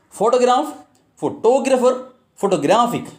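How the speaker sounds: "Photograph, photographer, photographic" stressed on first, second, then third syllable; shifting word stress. Shown as a demonstration. Teacher giving another example of suffixes, shifting word stress. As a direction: move the punch along: PHOtograph, phoTOgrapher, photoGRAphic. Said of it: "will really affect the stress".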